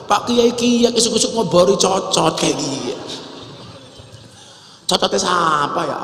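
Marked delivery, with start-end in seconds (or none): 0.1-2.9 higher-pitched Ngapak Javanese banter; Ngapak dialect. Retold or imitated. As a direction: imitate a Ngapak speaker offering a smoke. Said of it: "pakai bahasa ngapak". (logat Ngapak)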